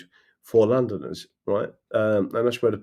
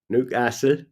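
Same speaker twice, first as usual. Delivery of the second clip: "Newcastle" in Geordie, short flat a; Newcastle accent. Retold or imitated. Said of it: "I love the Newcastle accent".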